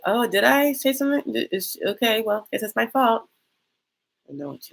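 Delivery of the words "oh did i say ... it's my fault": mock innocent quote. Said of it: "I just have to be like".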